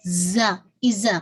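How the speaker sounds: ایزا with a buzzing z; wrong zaa demo. Shown as a demonstration. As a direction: lean on the z of زا, tongue behind the teeth. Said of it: "میں ایزا بولتی ہوں اور ایزا". (ایزا میں زا کی آواز)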